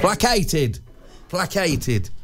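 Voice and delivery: "Placated" with a k, trying it out; hard-c pronunciation. Shown as a demonstration. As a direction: repeat "Placated" as plak-ay-ted. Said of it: "s rather than a k".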